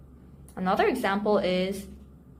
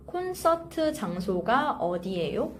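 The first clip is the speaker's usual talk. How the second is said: careful model phrase; faster than usual. Shown as a demonstration. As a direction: say "콘서트 장소가 어디예요?" carefully for learners. Teacher models phrase slowly, then fluently.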